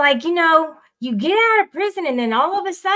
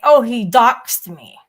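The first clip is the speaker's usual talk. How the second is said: slow, louder mock complaint, drawn out; mocking whine; 7 dB louder, slower than usual. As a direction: parody someone crying foul over nothing. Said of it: "they can just say".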